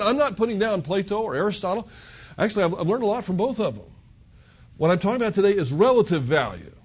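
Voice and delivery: ordinary talk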